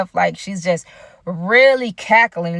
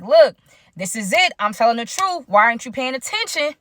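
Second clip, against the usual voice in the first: retold plea, pitched higher; mock-exasperated, insisting higher; exasperated insistence; 4 semitones higher than usual. Girlfriend trying a fifth time to convince her, exasperated.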